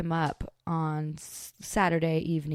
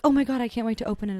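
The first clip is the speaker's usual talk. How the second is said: fast, eager gush; excited; 4 semitones higher, 4 dB louder, faster than usual. Retold or imitated. Telling a friend her eager test hopes, fast and excited. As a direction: rush it out like you can't wait.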